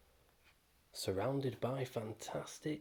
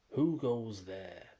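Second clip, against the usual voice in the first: slow, louder troll challenge; troll's roar; 5 dB louder, slower than usual. Acted. Troll challenging the boy on his bridge, slow roar. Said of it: "a deep voice roared".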